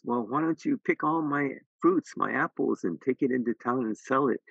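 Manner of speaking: the gentle tree. Acted. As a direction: offer it up like a giving old tree.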